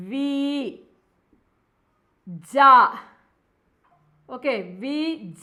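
വി and ജ said apart with long pauses; syllable by syllable. Shown as a demonstration. Teacher spelling out Ouija as വി ജ for students. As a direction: split വി ജ into two slow syllables. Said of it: "ഞാൻ പറഞ്ഞുതരാം".

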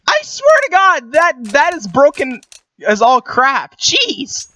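annoyed, slow-building grumble; a little mad. Real, not acted. Player to friend after being one-tapped, a little mad. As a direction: grumble in exasperation at the unfairness. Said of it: "Are you mad?".

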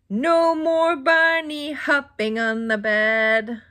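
slow, lightly voiced stern doctor. Doctor scolding the bunnies, slow and a touch stern. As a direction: wag a finger slowly, a hint of a stern doctor. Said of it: "the doctor said".

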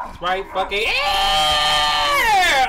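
slow, angry yell at the screen; frustrated shout. Real, not acted. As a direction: bellow it out in frustration. Frustrated gamer yelling at screen.

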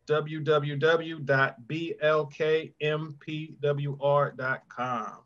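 slow spelled-out dictation. Shown as a demonstration. Spelling out website address.

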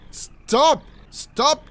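ordinary talk, nothing marked

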